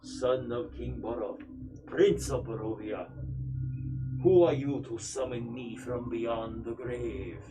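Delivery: a hint of a calm ghost, slow; slow, solemn ghostly prince; stoic ghostly voice. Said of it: "in a very stoic, calm, ghostly voice".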